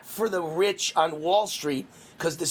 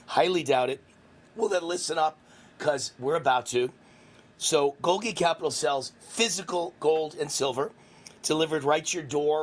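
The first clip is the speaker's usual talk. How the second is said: ad read. Acted. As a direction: sell it like a radio ad. Reads sponsor ad.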